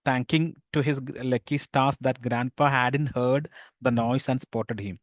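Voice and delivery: slow, careful read-aloud of the story. A narrator's reading. Teacher reading the English story to pupils, slow and careful. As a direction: read the English lines slowly to the class.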